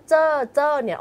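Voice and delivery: เจ้อ as a heavy Thai final syllable; Thai-style ending. Shown as a demonstration. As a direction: say เจ้อ with a hard j and falling Thai tone. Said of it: "คำว่าเจ้อ เจ้อเนี่ยออกเสียงเป็นเช".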